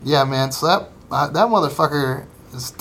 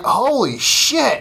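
slow, much higher gasp of disbelief; retold shock; 9 semitones higher, much slower than usual. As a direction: stretch it out, stunned by the snapped arm. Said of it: "So I'm like".

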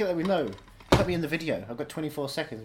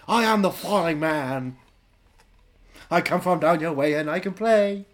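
eerie slow figure; 3 semitones higher, 6 dB louder, slower than usual. Acted. Slow eerie falling-man character.

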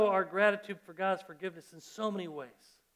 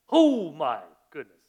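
astonished; 3 semitones lower, 9 dB louder, slower than usual. Real, not acted. Reacting to seventy-seven times.

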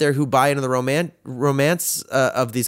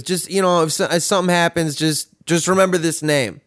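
imitating dad, higher and halting; stumbling retold plea from a father; dad's urgent request; 5 semitones higher than usual. Dad asks child to remember a name, higher imitated voice. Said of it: "And he goes".

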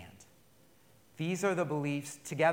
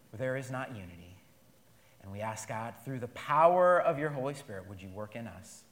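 prayer. Acted. Closing prayer.

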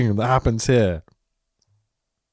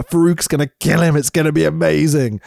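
retold excitement; 5 semitones higher than usual. Retelling his own hopeful reaction.

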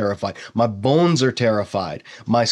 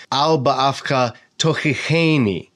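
slow Hebrew, weight on the cheni of "tochicheni"; stress on cheni. Shown as a demonstration. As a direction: lean into "cheni" at the end of "tochicheni". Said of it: "the stress you can see right there on the cheni syllable".

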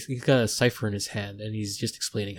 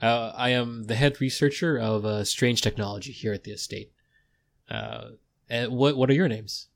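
eager researcher. Acted. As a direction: burst in with eager, apologetic welcome. GM voices researcher Jin Sato.

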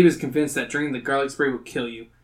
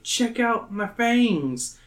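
higher, very slow, mouth stretched wide; slow fang reveal; 7 semitones higher, much slower than usual. Acted. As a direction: talk with mouth open showing fangs. Kid shows his fangs.

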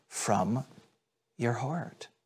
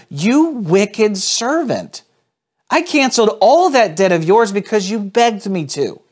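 angry master; 8 semitones higher, 8 dB louder than usual. Acted. Master scolding the unforgiving servant, angry rebuke. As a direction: bear down on the servant with each word. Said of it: "In anger".

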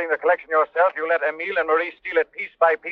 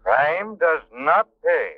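slow, deep, eerie pronouncement; ominous Shadow voice; 4 semitones lower, much slower than usual. Acted. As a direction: intone it like a ghostly avenger. Shadow's signature closing line.

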